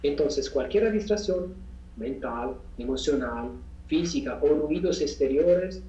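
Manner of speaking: unhurried instruction in short phrases with pauses; guided meditation. Real, not acted. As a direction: guide listeners step by step through breathing.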